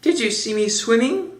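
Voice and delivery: high, eager little squeak; excited Roo. A narrator's reading. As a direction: pipe up excitedly, rising at the end. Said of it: "squeaked Roo excitedly".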